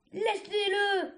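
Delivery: sharp high growl, slowed. A narrator's reading. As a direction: growl the order to let go. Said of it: "gronda Fjord".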